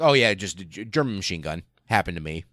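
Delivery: super casual. Retold or imitated. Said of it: "super casual".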